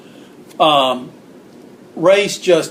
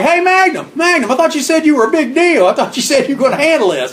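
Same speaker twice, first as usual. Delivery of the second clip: much higher shouted mocking heckle; yelled taunt; 10 semitones higher than usual. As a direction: jeer at him across the arena. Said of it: "So we're like".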